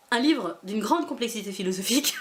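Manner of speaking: mock-serious praise breaking into laughter; deadpan irony, laughing through it; ironic laugh. Real, not acted. Joking to viewers about her Miraculous book, laughing.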